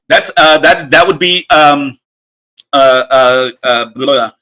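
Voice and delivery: real stumbling with false starts and fillers; tongue-tied. Real, not acted. Game master fumbling for the rule to give a player, tongue-tied. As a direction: lose your words, then give up with a blah. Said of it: "I can't even speak right now".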